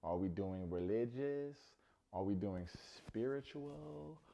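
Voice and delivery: slow, drawn-out questions; mock slow delivery. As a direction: drag each question out. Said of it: "I cannot confirm that he said it like that".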